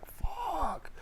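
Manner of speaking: high, soft, drawn-out mock disbelief; stunned British boss. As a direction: stretch it out high in imitated shock. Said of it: "He's like".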